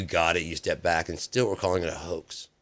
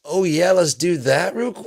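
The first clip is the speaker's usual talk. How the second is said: much higher, louder, squeaky repeat; squeaky mock Trump; 11 semitones higher, 8 dB louder than usual. Mocking the president's forgetfulness, squeaky and high. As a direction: squeak it out like a cartoon.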